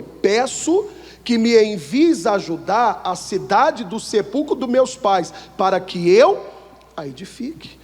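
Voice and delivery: slow, deliberate Bible reading; slow Bible reading to the congregation; scripture reading. Acted. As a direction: read the verse out slowly and solemnly. Rereads verse on request.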